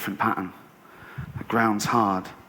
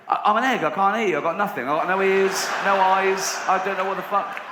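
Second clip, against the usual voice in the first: higher-pitched flustered complaint; protesting egg; 5 semitones higher than usual. Acted. Egg answering advice about the wall, flustered protest. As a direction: plead helplessly as a baffled egg.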